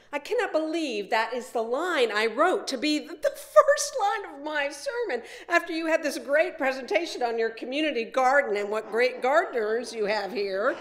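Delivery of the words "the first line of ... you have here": chuckling through the words, a little higher; laughing. Real, not acted. Preacher laughing at her own sermon opener to the congregation, amused. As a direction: laugh at yourself as you admit it.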